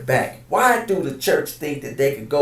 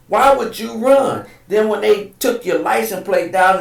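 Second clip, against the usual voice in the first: indignant shout; 6 semitones higher, 4 dB louder than usual. Real, not acted. Angry rant over slapping employee.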